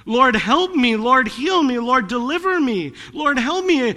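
crying out to God. Acted. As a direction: call out to the Lord as if broken. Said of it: "We can cry out".

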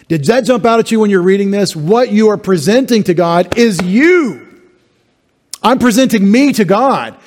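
urgent emphasis. Real, not acted. Preacher presses the point home.

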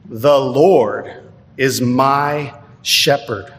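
slow, stress "Lord" and "my"; weighty emphasis. Shown as a demonstration. Pastor lingers on the key verse, slow and weighty. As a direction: give each word weight. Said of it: "has the most important words".

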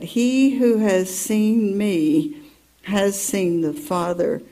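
slow, deliberate rereading. Shown as a demonstration. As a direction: spell out each word as it dawns on you. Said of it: "when I read that".

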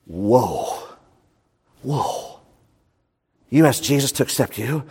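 mock astonishment. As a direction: feign shock at what you just heard. Mock astonished reaction to quote.

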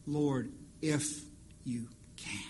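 hesitant, trailing off to nothing; doubtful whisper. Acted. Preacher mimics the doubting father in a hushed whisper. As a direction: fade "you can." into a breathy, unvoiced whisper.

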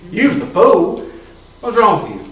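rising into a high, loud rebuke; scolding friend. Retold or imitated. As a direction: call him the fool. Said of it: "And I said".

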